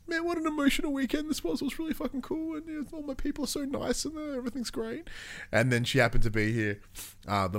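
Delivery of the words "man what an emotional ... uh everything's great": high, airy, gushing happy voice; mock chipper voice. Retelling his call to his friend, high mock cheerful voice. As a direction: gush it out in a high sing-song. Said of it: "being like".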